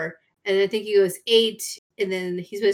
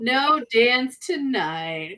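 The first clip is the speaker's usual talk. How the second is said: mock sad; 2 semitones higher, much slower than usual. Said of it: "he has the best line".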